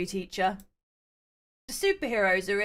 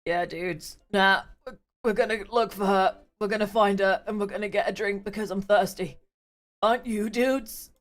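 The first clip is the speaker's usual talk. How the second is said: low dude voice. Acted. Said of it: "I did a man's voice".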